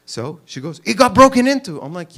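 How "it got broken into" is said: high, loud imitation of a frantic wife; hammed-up panicked outburst, pitched up; frantic screaming. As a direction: mock-scream the alarming news. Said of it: "she came frantic into the house and she was screaming".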